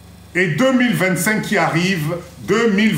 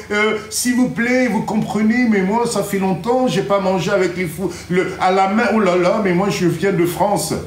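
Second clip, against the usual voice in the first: mock French accent, slightly raised and fussy; affected French accent. Returnee telling people they come from France, affected French accent. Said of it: "tu changes l'accent pour faire plaisir".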